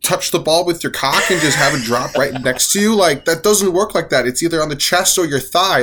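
angry rant. Real, not acted. Furious rant at a player's miss.

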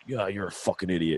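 softly imitated Staten Island accent; understated mock bickering in Staten Island accent. Retelling a husband insulting his wife, mild Staten Island accent. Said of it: "he's just got this accent".

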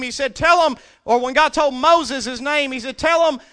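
high, loud preaching voice; full-force preaching. Acted. Preacher describing the beasts crying holy, loud preaching. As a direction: proclaim it to the room.

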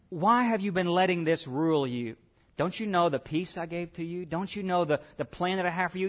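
gentle questioning. Acted. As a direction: ask it softly, like a patient friend.

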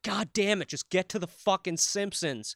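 mock a fed-up kid; impatient. Recalling waiting as a kid for the next show, impatient. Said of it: "I was like".

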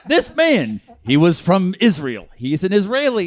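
mock spelling-it-out. Co-host repeating the story for the lady in back, mock-patient. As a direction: announce each fact deliberately. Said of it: "One more time for the lady in the back".

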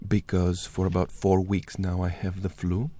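husky flu-worn voice; raspy sick voice; hoarse voice. Real, not acted. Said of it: "in my radio voice".

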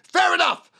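loud, high, falling fair enough; fair enough as statement. Shown as a demonstration. Salesman closing the deal as a statement. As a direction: state it, don't ask. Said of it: "ask it as a statement".

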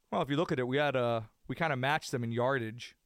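deadpan it like a weary head coach at the podium; a hint of a gruff coach brushing off questions; Belichick impression. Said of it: "the classic Belichick".

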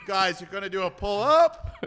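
high coach voice, every phrase end rising; rising sentence ends. Retold or imitated. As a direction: imitate a coach whose sentences float up at the end. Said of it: "his hands are going like crazy".

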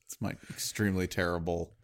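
ordinary talk, nothing marked

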